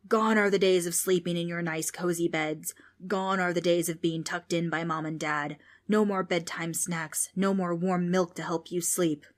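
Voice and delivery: put-on taunting the kids in a hushed spooky voice; a hint of a creepy whispering ghost. Ghost lists lost comforts.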